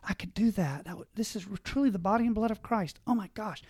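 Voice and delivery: hushed wonder, rising a little toward the end. Retold or imitated. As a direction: act out a dawning realization. Voices awed young person at Mass.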